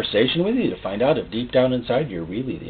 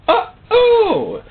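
mock worried demon; 4 dB louder than usual. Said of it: "And they go".

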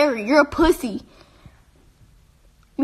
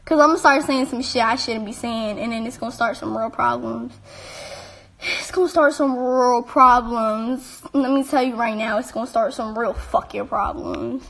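quiet, low threat, words slowing; low menacing warning; 4 semitones lower, 7 dB quieter than usual. Real, not acted. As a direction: hold it down and make it a threat. Warning he'll say too much.

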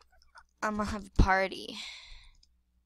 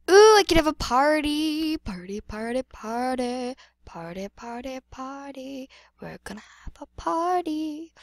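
lightly put-on excited singsong; singsong party cheer; Cookie Swirl Sweet; 3 semitones higher, 6 dB louder than usual. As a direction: chant it like a perky video host, opening loud. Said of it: "I sound like Cookie Swirl Sweet".

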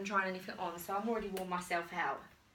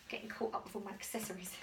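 soft laugh through the words; laughing quietly; 3 semitones lower, 10 dB quieter, faster than usual. Real, not acted. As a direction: chuckle while you say it. Tangled in accessories while changing.

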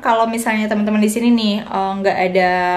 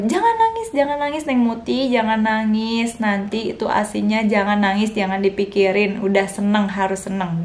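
soothing caregiver. Retold or imitated. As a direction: coax her tenderly to stop crying. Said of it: "bilang sama aku".

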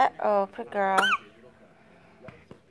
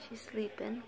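whispered so as not to wake her; breathy hush, no voice; 8 dB quieter than usual. Real, not acted. Baby asleep nearby.

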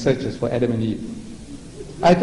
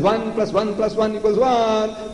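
slow, higher pronouncement as the Father; mock Father; 6 semitones higher, slower than usual. The Father to the Son, a slow mock decree. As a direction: lay down the rule slowly. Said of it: "Father says".

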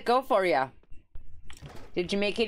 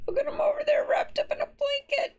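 hushed whisper about the sick duck; whispered aside. Acted. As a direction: whisper it so the duck can rest. Reads line as hushed aside.

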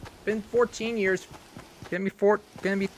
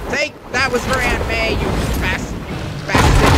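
loud avenging snarl; hammed-up hero avenging Aunt May; mock hero fury; 6 dB louder than usual. Hero's revenge line.

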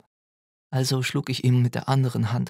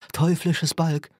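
cursing; 6 semitones higher, slower than usual. A narrator's reading. Robert curses the child he holds, raised angry voice. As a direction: spit the words out as a curse. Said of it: "fluchte er".

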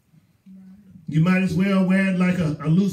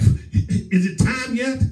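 high, drawn-out impatient question; eager excitement; 6 semitones higher, slower than usual. Acted. Churchgoer waking up on Saturday night, eager excitement. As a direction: act out can't-wait anticipation, slowly. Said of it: "You ought to be excited".

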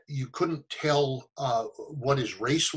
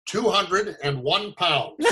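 slow, higher, lightly voiced child; little girl; 5 semitones higher, slower than usual. Girl guessing his weight, lightly voiced child. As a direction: imitate a kid spelling out an answer slowly. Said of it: "eight or nine-year-old girl".

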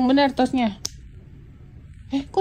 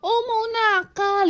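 drawn-out, higher teasing threat; playfully menacing, slow; mock threat; 6 semitones higher, slower than usual. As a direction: stretch it slowly like a playful warning. Parent teases child with mock threat.

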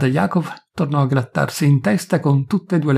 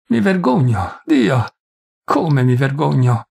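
a broken priest calling out to God, raised voice and slowing; anguished outcry; slower than usual. Acted. Priest crying out his shame to Cunin, anguished raised voice. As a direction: cry out the shame, then slow on the last words.

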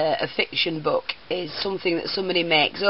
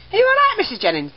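teacher's concern; 13 semitones higher, faster than usual. Retold or imitated. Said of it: "Teacher's going".

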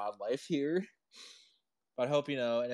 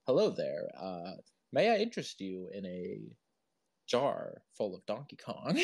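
a lightly put-on seductive purr; mock sexy voice; 3 semitones lower than usual. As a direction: tease it like a mild, lazy pickup line. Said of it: "a sexy voice".

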